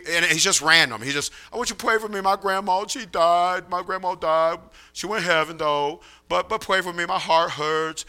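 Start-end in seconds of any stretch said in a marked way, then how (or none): 1.5-8.0 soft, level imitation of a simple testimony; quiet, plaintive imitation; Denny's prayer request. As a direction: imitate a simple young man asking for prayer, hushed. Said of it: "Denny always gave a testimony".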